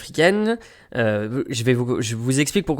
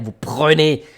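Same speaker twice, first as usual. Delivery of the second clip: "prenez" louder and drawn out; emphasis on PRENEZ; 4 dB louder, slower than usual. Shown as a demonstration. Traveller pointing out the extra word, "prenez" stressed. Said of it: "un mot supplémentaire".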